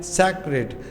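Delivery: सेक्रेट in two distinct syllables. Shown as a demonstration. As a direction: separate the two beats of सेक्रेट. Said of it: "वो उसका syllable कहलाएगा". (सेक्रेट को दो हिस्सों में तोड़ कर)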